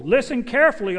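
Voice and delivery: a touch of a public shout; mild shout. Acted. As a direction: call out to the crowd, only partly shouting. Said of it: "and shouted to the crowd".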